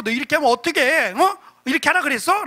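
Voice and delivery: mild, quick telling-off; lightly acted scolding, pitch rising on the questions; mock scolding. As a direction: pretend to scold a naughty puppy. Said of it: "강아지를 혼내고".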